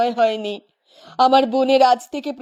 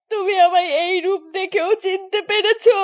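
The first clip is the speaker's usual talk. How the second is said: tearful; 5 semitones higher than usual. Acted. Ghost girl tearfully asks recognition.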